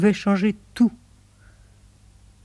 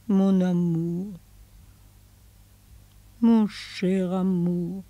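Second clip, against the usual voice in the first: tender; slower than usual. Acted. Woman saying goodbye to her lover, slow and tender. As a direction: linger on each word, gently.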